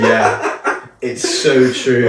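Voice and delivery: slow, laughing mock agreement; mock agreeing. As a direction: sarcastically go along with it. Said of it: "you're there going".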